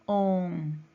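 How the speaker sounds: "on" said alone and held; teacher isolating "on", long and clear; stressed syllable. Shown as a demonstration. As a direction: draw out "on" as a separate syllable. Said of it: "Lleva tilde en".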